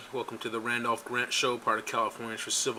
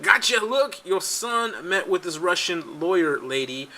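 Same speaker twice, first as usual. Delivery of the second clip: higher, louder mock accusation; mock gotcha; 5 semitones higher, 4 dB louder, slower than usual. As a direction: pounce like accusers catching him out. Voicing accusers' gotcha moment.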